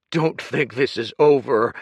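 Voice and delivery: loud, hard warning; menacing threat. Acted. Kuruk threatening Dorian as he leaves, menacing. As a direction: promise him trouble.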